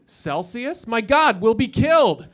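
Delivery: theatrical dread, cracking into a laugh; mock panic. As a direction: fake horror at the weather news. Mock panic at small talk.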